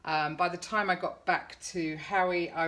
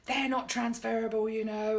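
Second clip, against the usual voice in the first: snotty stranger; 5 semitones higher than usual. Retold or imitated. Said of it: "he just went".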